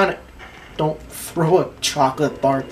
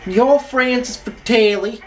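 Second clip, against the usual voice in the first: dramatic reveal; 8 semitones higher, 5 dB louder than usual. Acted. Naming the villain dramatically.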